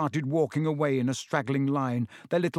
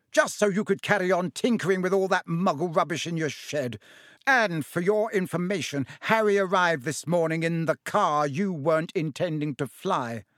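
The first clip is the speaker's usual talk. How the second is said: shouting; 4 semitones higher than usual. Acted. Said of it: "shouted Missus Weasley".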